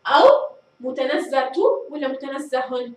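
slow, متنزهة with t then متنزه with h; two endings compared. Shown as a demonstration. Teacher asks pupils which ending fits, slow contrast. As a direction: weigh متنزهة against متنزه slowly. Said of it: "ماذا أقول؟".

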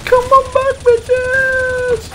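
high, loud battle yell; shouting orders over battle. Real, not acted. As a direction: scream it at the enemy. Yelling at enemies mid-battle.

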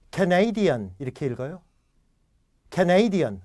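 Canadian with a clear full "kae" before NEI; Korean learner's error. Shown as a demonstration. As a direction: say Canadian as "kae-NEI-dian", first vowel too distinct. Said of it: "우리는 Canadian 이렇게 읽는 실수를".

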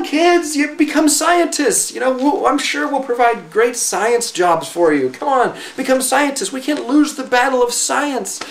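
lightly voiced panicking bureaucrat urging children into science; mock alarmed official. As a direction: ham up a panicky government planner. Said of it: "This idea that".

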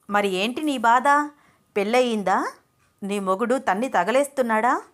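loud, impatient questioning; angry interrogation. Acted. Venkat keeps interrogating.

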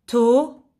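"to-gra-phie" in three separate beats; syllable by syllable. Shown as a demonstration. Teacher giving a word puzzle, "to-gra-phie" syllable by syllable. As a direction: pause after each syllable of "to-gra-phie". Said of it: "la syllabe qui manque".

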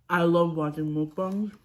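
talking through a mouthful of food; mouth full. Real, not acted. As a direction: say it while still chewing. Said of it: "Let me finish chewing, then speak".

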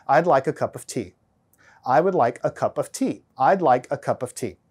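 plain Texan American "I'd like a cup of tea"; own Texan accent. Shown as a demonstration. Lecturer demoing his own Texan accent to the class. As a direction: say it in your everyday Texan accent. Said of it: "Let me say a phrase in my normal Texan United States accent".

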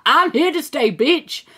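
cheeky laughing sass; sassy. Pretend. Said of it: "It said".

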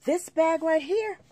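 high, loud, slow and emphatic; indignant. Real, not acted. Resident showing off a costly ruined bag, indignant. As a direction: draw each word out in outraged disbelief.

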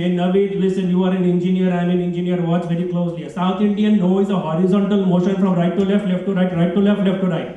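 put-on earnest South Indian accent, evenly explaining; Balan Dinesh, South Indian accent. South Indian friend explains yes and no to fellow engineer, South Indian accent. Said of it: "My South Indian friend Balan Dinesh explains".

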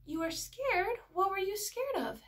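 put-on high-pitched asking, as to a small child; empathetic question. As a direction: draw a child out with concern. Retold gentle question to child.

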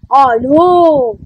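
put-on a small child's bellow; mild bellow. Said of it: "bellowed the chief elephant".

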